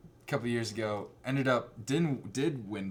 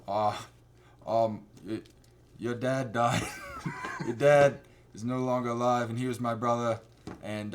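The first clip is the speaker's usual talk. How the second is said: put-on understated, halting Boston-accented uncle; attempted Boston accent. Uncle awkwardly telling his nephew of a death, attempted Boston accent. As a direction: try a Boston accent, hesitantly. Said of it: "what accent I'm trying to do".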